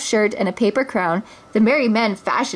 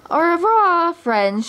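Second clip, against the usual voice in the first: triumphant shout; 9 semitones higher, slower than usual. A narrator's reading. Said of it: "shouted Robin Hood triumphantly".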